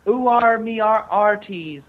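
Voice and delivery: lightly voiced pirate, loud and slow; hammed-up pirate announcing himself; pirate impression. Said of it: "the pirate".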